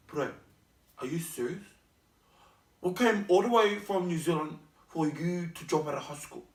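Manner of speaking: put-on half-hearted, botched New Zealand accent; terrible accent attempt. Parents refusing to let their child drop out, weak New Zealand accent. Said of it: "What was that accent? That was terrible".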